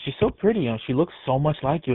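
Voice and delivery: lightly acted delight over a child; imitated fond admiration. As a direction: admire fondly, starting high and easing down. Acting resident admiring unseen girl.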